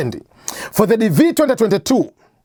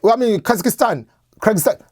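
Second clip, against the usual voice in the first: high, quick, fretful mock asking voice; imitating anxious applicants; 6 semitones higher than usual. Host mimics viewers asking if their country qualifies, high and fretful. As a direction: play a worried applicant, pitched up and hurried. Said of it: "People are getting".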